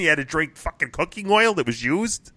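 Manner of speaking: high-pitched, astonished disbelief; incredulous amazement. Real, not acted. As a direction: react in disbelief at an outrageous story. Reacting to absurd news story.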